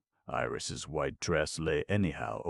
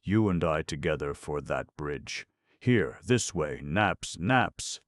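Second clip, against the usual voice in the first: calling out; 2 semitones higher, 6 dB louder than usual. Acted. Calling out in the water.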